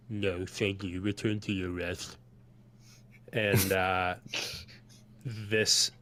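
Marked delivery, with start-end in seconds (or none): 0.1-2.2 lightly voiced tabaxi; a hint of an altered character timbre; Farguild's character voice. Farguild dismisses his mannequin, lightly voiced tabaxi. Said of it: "And he goes".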